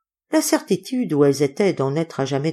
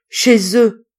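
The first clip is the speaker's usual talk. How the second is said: loud, raised gasp of dread; groaning; 5 semitones higher, 7 dB louder than usual. A narrator's reading. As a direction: groan it out in terror. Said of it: "râla le docteur".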